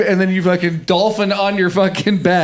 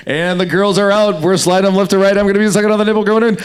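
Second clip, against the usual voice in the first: sports commentator; 3 semitones higher than usual. Pretend. Commentator parody for an improv prompt, mock play-by-play. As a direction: call the action like a match announcer. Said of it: "as a sports commentator".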